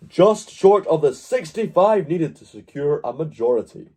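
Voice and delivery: movie trailer announcer read. Acted. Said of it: "let me get my trailer voice on here".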